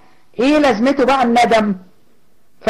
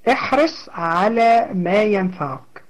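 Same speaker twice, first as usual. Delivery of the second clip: said again slowly, settling the point; slower second take, letting احرص sink in; slow repeat; 3 semitones lower, 4 dB quieter, slower than usual. Shown as a demonstration. Teacher repeats the hadith slowly to her students.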